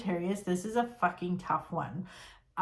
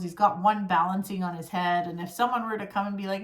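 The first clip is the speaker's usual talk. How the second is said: ordinary talk, nothing marked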